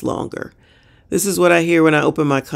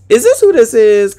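incredulous; 6 semitones higher, 6 dB louder than usual. Real, not acted. Mocking the commenter.

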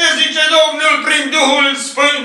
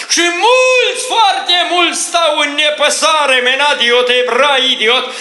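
prophetic preaching. Real, not acted. Prophet speaking for the Lord to the covenant people, fervent preaching. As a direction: preach it in bursts, slowing into tongues.

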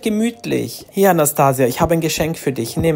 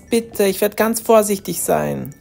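pleading; 4 semitones higher than usual. Acted. Daughter begs mother for party.

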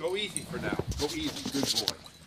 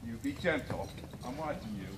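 softer, lower steady warning; 6 semitones lower, 6 dB quieter than usual. Real, not acted. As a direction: warn the dog quietly. Warning the dog quietly.

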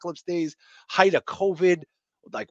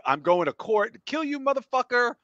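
higher-pitched hammed-up breakup rant; mock threats; 5 semitones higher than usual. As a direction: play a vengeful ex, voice pitched up. Mocking friend's dramatic breakups, acting threats.

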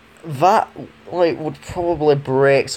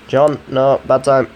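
louder, sharper second warning; firmer, louder; 6 dB louder than usual. Real, not acted. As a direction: raise your voice and cut it off. Telling device again, firmer.

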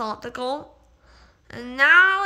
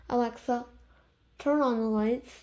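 clear, quiet command to Alexa; talking to voice assistant; 7 dB quieter than usual. Real, not acted. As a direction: speak a device command, softly. Commanding the smart speaker.

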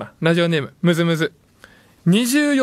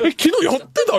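mock surprise; 8 semitones higher than usual. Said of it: "みたいな".

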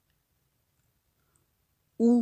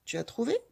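"Peau" higher and much louder; emphatic answer; 6 semitones higher, 7 dB louder, faster than usual. Shown as a demonstration. Teacher to child confirming the syllable: loud emphatic "Peau". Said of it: "Peux-tu montrer la syllabe".

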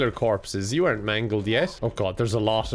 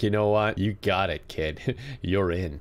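gruff boss voice; 6 semitones lower, 4 dB quieter than usual. Retold or imitated. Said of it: "they're like".

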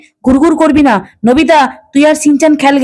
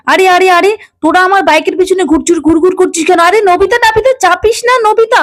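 rising alarm, pitched higher and higher; startled uncle yelling at kids clinging to his bike; alarmed protest; 4 semitones higher than usual. Acted. Uncle startled as kids climb on his bike, alarmed protest.

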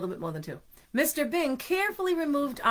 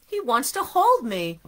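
pleased donut voice; 3 semitones higher, 5 dB louder than usual. Acted. Arnie's happy thought.

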